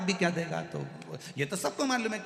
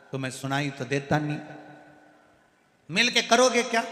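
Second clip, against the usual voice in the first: grandson yelling; 5 dB louder than usual. Acted. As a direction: shout it back at grandpa. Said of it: "नाना चिल्ला कर बोला".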